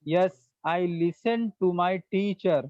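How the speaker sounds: very slow, each word laid out for students; slow model sentence. Shown as a demonstration. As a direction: dictate it slowly for the class to repeat. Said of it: "teacher models English sentence slowly". (धीरे-धीरे, साफ़ बोलकर)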